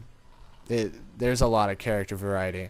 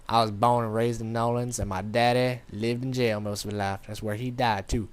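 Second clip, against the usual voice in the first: lightly imitated New Orleans accent; a hint of a New Orleans local telling his story. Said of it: "That's how he speaks".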